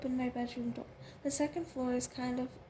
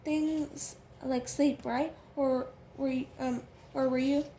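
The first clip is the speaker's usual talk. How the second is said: husky Southern twang. Acted. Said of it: "in her husky twang".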